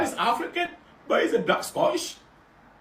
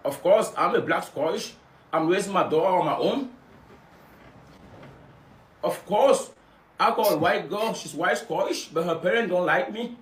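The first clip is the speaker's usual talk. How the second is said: mock Scottish accent; 8 semitones lower than usual. Continues Scottish impression.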